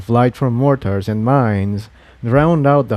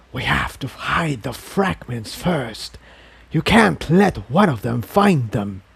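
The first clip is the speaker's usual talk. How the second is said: a lightly voiced sinister inner voice, softer at the start; 3 dB quieter than usual. A narrator's reading. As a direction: urge him on like a hidden presence. The inner voice speaks.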